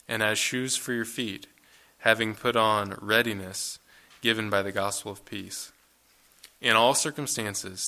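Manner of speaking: measured, emphatic reading of the passage; scripture reading. Acted. Preacher reading Ephesians six to the congregation, steady and weighty. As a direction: read it like a call to arms, phrase by phrase.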